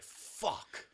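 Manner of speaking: whispered curse; mock whispered dismay; caught-out curse. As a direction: breathe it out, busted. Realizing he is caught.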